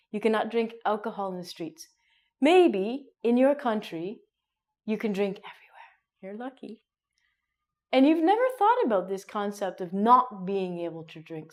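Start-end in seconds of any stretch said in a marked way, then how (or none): 4.8-6.8 quick conspiratorial whisper; whispered aside. Real, not acted. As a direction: fluisterend terzijde. Envious aside.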